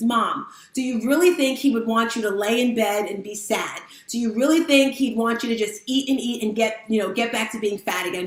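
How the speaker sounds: ordinary talk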